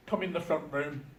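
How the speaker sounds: put-on just a touch of Jamaican in the Jamaican accent. Son quoting his Jamaican dad, faint Jamaican accent. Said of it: "Obviously, I'm not doing the Jamaican accent".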